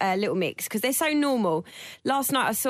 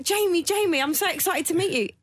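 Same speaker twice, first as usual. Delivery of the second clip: excited fan; 6 semitones higher than usual. Retold or imitated. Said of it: "and he's like".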